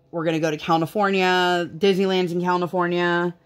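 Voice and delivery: "California" said as "Cal-na-fornia" each time; "California" with an extra n in the middle; child's mispronunciation. Retold or imitated. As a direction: quote a kid who says "California" as "Cal-na-fornia". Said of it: "she definitely says it that way".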